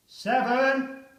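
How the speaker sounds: officer's shout; shouted count. Acted. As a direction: yell the number down the trench. Countdown called in trench.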